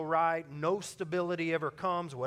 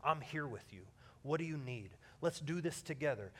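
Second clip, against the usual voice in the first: gentle comfort; 3 semitones lower, 5 dB quieter than usual. Retold or imitated. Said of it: "just tell 'em".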